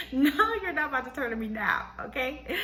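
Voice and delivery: high, sassy, put-on scolding voice. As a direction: tell him off with attitude. Scolding husband for switching sides.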